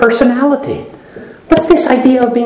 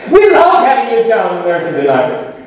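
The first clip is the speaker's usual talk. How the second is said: sweet greeting; 2 semitones higher than usual. Shown as a demonstration. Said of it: "talk to each other and say".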